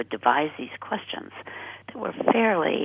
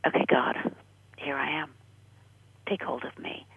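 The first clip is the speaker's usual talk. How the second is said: hushed, fading prayer; softly surrender to God; a soft whispered plea, growing fainter; quiet prayer. Retold or imitated. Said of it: "I just said".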